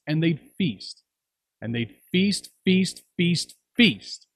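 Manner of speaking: mock the endless feasting; building mockery. A narrator's reading. Mocking the feasting.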